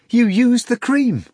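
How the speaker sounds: high, loud, slow accusing cry; slow high scream. A narrator's reading. Margarita shouts at her maid, high slow cry. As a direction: drag out the shocked accusation. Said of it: "Margarita screamed".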